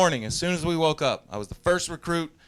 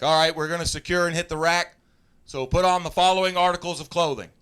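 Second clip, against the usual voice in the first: drill instructor announcement; 3 semitones higher, 4 dB louder than usual. Retold or imitated. Instructor announcing orders to recruits.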